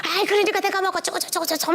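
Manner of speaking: put-on high-pitched, fast-spilling child's complaint; high mock whining outburst; loud child imitation. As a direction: mimic a child fussing in a high voice. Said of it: "우리 조이는 막 큰 소리로 말하고".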